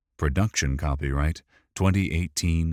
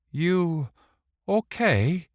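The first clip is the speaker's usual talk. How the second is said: very high-pitched little voice; high-voiced character; 13 semitones higher, 4 dB louder, slower than usual. A narrator's reading. Wick checks on Griff after his stumble, high-voiced. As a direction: pitch it way up for a concerned question.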